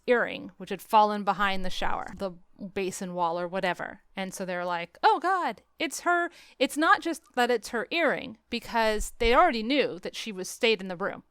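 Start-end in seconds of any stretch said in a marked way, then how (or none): 5.0-6.3 higher, startled gasp of realisation; mock alarm. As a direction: realise with a jolt it's hers. Characters react to earring.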